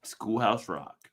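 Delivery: slow and clear for note-taking; slow dictation. Shown as a demonstration. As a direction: dictate it slowly so she can write. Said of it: "Write it down".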